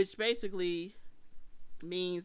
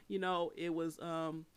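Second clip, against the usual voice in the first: out of breath. Real, not acted. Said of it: "I'm so out of breath".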